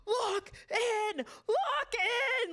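high, laughing mock command; laughing imitation. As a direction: imitate the guide's order while cracking up. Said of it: "to be like".

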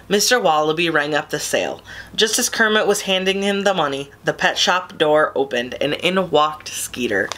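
ordinary delivery

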